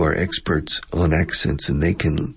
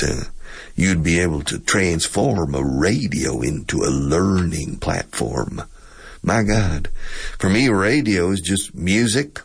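Texas accent. Shown as a demonstration. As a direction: act out a chatty Texan radio host. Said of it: "people talking like this".

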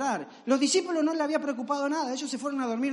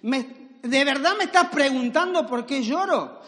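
incredulous protest. Acted. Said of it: "si eras tú".

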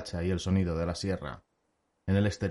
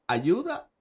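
much higher, laughing bard's question; laughing disbelief; 11 semitones higher than usual. Acted. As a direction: laugh at the very idea. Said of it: "Se rió Jaskier". (Jaskier se ríe, incrédulo y agudo)

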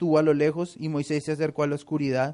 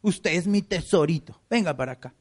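pampering tone. Retold or imitated. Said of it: "Dios quiere consentirlos".

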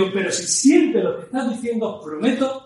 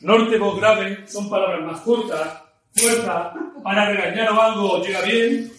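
clipped northern demo. Shown as a demonstration. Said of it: "Hay un tema norte-sur".

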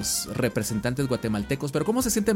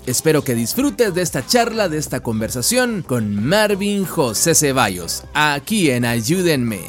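podcast announcer voice; 3 dB louder than usual. Acted. Podcast host intro over music.

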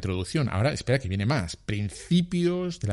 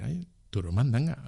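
dismissive quote; 5 dB quieter than usual. Retold or imitated. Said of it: "y decir".

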